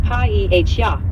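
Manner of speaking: "pa-E-H-R" sounded out slowly, syllable by syllable; slow spelled-out syllables. Shown as a demonstration. Tutor slowly spelling the word for the learner. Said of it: "Paella is pronounced".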